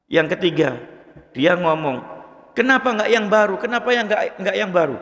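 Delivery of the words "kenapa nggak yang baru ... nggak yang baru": raised higher, a dying man raving in his sleep; delirious raving. Retold or imitated. Preacher voicing the dying man's second cry, higher delirious tone. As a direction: let it float up like a fevered dream. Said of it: "mengigau seperti itu".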